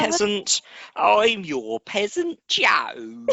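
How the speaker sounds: high, very drawn-out silly sign-on; hammed-up high mock introduction; ridiculous intro. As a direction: announce yourself absurdly, stretching the words. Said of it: "you do it very ridiculously".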